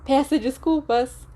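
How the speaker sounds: high, slow gloating order; gloating demand. Acted. Sirius pinning Remus, demanding an apology with gloating. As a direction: savor making him say sorry.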